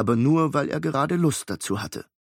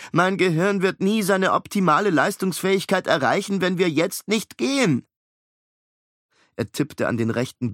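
pleading clever twin; 4 semitones higher than usual. Acted. Miles asking Nanny for a robot, higher fussy plea. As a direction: beg the system for help, prim.

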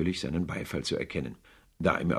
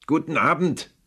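"Guten Abend" called out higher and louder, stressing Abend; loud dismissal; 10 semitones higher, 7 dB louder than usual. Acted. Scrooge finally shouts his nephew out the door. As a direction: bark "Guten Abend" to end the talk. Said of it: "rief Scrooge".

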